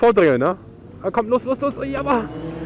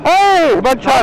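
mock sweet greeting; 4 semitones higher, 4 dB louder, much slower than usual. Begrüßt Fahrer spöttisch.

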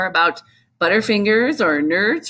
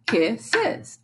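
two separate parts. Shown as a demonstration. Syllables sounded out.

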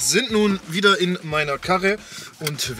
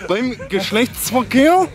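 Naturdoku-Sprecher; 9 semitones higher, 6 dB louder than usual. Pretend. Spielt Tierdokumentation-Sprecher.

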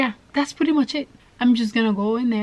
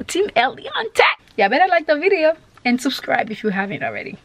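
excited; 5 semitones higher than usual. Real, not acted. Hyped sign-off before the prank.

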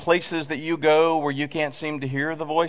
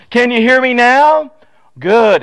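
much higher and louder, slow call; shouting into a blizzard; 9 semitones higher, 9 dB louder, slower than usual. Retold or imitated. Verizon man in a blizzard shouts down the phone. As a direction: shout through the storm wind. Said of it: "out in a blizzard".

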